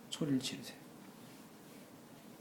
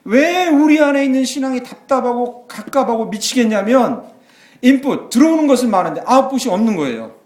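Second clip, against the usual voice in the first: full-force preaching; 12 semitones higher, 11 dB louder than usual. Acted. Pastor crying out to the church, loud preaching. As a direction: preach it out to the congregation.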